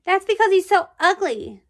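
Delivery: high, loud mocking girl; snotty girl voice. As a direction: sneer like a snotty kid. Girl mocks new boy.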